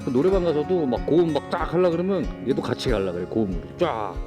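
speaking with wobbly dentures; slightly slurred, loose false teeth. Real, not acted. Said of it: "제가 지금 막 발음도 이상하고". (헐거운 의치로 말하는 발음)

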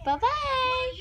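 kindergarten teacher voice. Real, not acted. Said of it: "you sound like a kindergarten teacher".

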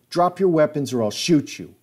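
high, loud command; police shout. Retold or imitated. Supervisor cop ordering everyone to drop weapons, shout. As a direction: bark it like an armed cop.

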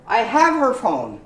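"her" said as a short "er"; reduced her. Shown as a demonstration. Teacher demonstrating "her" shortened to "er". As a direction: slide "have her" into "haver".

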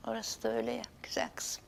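soft unvoiced whisper. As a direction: whisper it so nobody wakes. Goodnight in a dark room.

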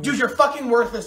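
contemptuous insult. Acted. Insulting friend.

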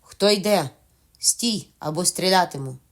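captain challenging the pirates, calling out. Acted. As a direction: call out a warning to intruders. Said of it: "гукнув піратам".

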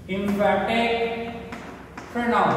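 slow, drawn-out heading; dictating. Shown as a demonstration. Teacher writing a new heading for children, slow dictation. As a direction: stretch each word, pausing between them.

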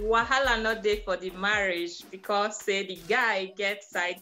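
put-on light Nigerian pidgin accent. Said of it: "Please deliver that hot soup in the Nigerian accent".

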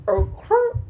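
high-pitched "Okay" with a failed R trill; attempted rolled R. Vlogger retrying what she can't do, failed rolled R. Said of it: "I can't roll my R's".

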